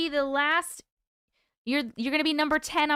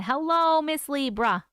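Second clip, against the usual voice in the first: put-on a light Brooklyn accent on hello; 2 semitones higher, 3 dB louder, slower than usual. Streamer answers a viewer's request with a Brooklyn accent. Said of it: "Hey with my Brooklyn accent".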